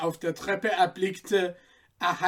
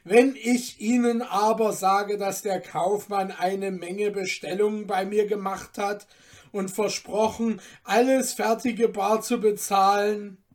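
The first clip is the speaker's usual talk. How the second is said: louder pleading father; 3 semitones higher, 5 dB louder than usual. Acted. Father arguing with the iron merchant, pleading. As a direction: press the merchant for credit.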